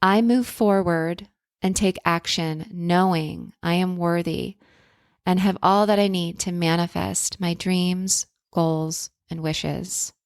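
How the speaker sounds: affirmation reading. Shown as a demonstration. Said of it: "write this down".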